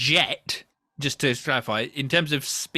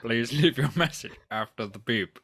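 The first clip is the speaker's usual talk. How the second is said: lightly voiced answerphone greeting; calm recorded-message delivery, a touch low; over a landline phone; 3 semitones lower than usual. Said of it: "this is Alan Rickman".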